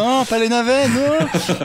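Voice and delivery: high-pitched joking wail; mock despair. Co-host teases a friend's obsessive game dream, mock despair. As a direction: cry out in comic, hammed-up horror.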